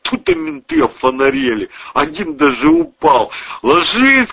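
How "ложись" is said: high, loud mock cop shout; imitating a policeman's yell; retold shout. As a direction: yell the command as the cop did. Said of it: "кричит".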